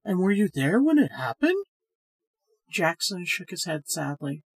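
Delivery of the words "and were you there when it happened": a high, loud gasp of horror from Miss Finley; shocked woman. A narrator's reading. Miss Finley reacts to the story, shocked and high. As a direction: voice Miss Finley, aghast and much higher. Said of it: "Miss Finley said".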